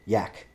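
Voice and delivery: imitating "Yak" with a y and a hard k; mispronounced name. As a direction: say "Yak" as others mangle the name. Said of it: "everybody tries to say my name".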